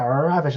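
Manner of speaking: "Ravished" with a rolled, drawn-out opening R; emphasis on Ravished. Shown as a demonstration. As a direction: lean hard into the R of "Ravished". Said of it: "I put some emphasis on that".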